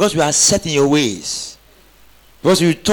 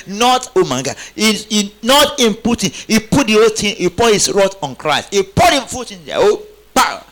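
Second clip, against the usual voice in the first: excited preaching; 6 semitones higher than usual. Real, not acted.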